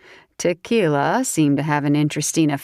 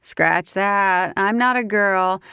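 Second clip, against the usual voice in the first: put-on higher, giggly drunk southern woman; tipsy southern woman; 4 semitones higher than usual. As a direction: play the tipsy belle teasing him. Grace's voice.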